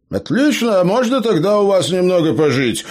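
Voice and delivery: high, eager gnome; perked-up gnome. A narrator's reading. Gnome perks up and begs the couple for a room. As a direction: leap at the chance, suddenly hopeful. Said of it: "воспрянул духом гном".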